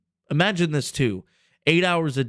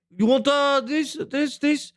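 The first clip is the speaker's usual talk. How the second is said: pushy street seller; 12 semitones higher than usual. Retold or imitated. Locals offering him drugs.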